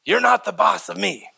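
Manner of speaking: lightly imitated child talking back; defiant child. Children talking back to parents, teachers and coaches, defiant. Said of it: "children say it to their coaches".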